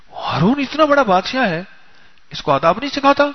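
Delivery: high, indignant rhetorical question. Retold or imitated. Preacher repeating the guest's outrage to the crowd, high and indignant. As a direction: press the point, scandalised.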